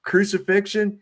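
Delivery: high rising question, acted out; mock guard's brisk inquiry, voice lifted; Roman guard. Retelling a film's guard sorting prisoners, high questioning voice. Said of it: "he'd ask him, he says".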